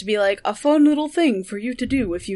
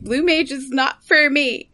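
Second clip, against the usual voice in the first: whiny brat; 4 semitones higher, slower than usual. Retold or imitated. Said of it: "I just sound like a whiny brat".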